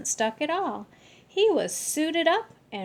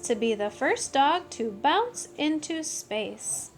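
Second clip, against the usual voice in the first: proud announcement; 2 semitones higher, 4 dB louder than usual. Acted. Kitten boasting to the room, loud and proud. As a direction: puff up and declare who you are.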